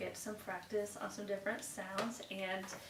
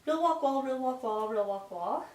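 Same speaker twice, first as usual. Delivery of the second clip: loud class recital; 4 semitones higher, 7 dB louder than usual. Shown as a demonstration. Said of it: "recite it as a class".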